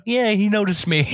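excited anime fan. Retold or imitated. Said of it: "so I was like".

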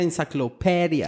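"enciclopedia" said as "insaclopedia"; imitated mispronunciation. Recalling a guy's verbal tic, mispronounced "enciclopedia". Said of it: "aquel maje que no dijera enciclopedia".

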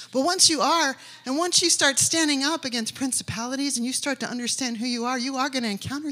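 loud, rising preacher's cry; rally the room at full voice; preaching shout. Real, not acted. Preacher rousing the congregation, loud.

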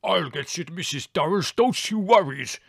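high, building to a loud roar; big rough-and-ready reassurance, roared. A narrator's reading. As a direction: roar an offer of help, slowing at the end. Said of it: "roared Spiro".

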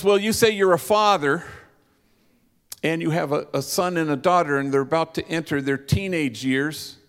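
woman asking. Retold or imitated. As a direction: voice the eager woman in the crowd. Woman asks Mario a question.

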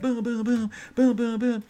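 high, punchy mock gunfire; rapid-fire booms. Bragging about her one-liners, high loud bursts.

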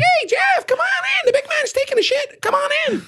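very high hollering through a megaphone; megaphone shout. Retold or imitated. Manager hailing Jeff from outside the shop, megaphone shout. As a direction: imitate a piercing megaphone call. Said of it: "With a megaphone, he's like".

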